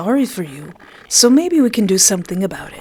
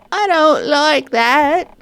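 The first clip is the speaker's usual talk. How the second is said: menacing villain; 8 semitones higher, 4 dB louder, slower than usual. Acted. Villain character speaks to player.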